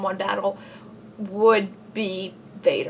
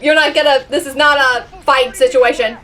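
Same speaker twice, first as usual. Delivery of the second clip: excited urging; 4 semitones higher, 5 dB louder than usual. Real, not acted. Urging a character to flee.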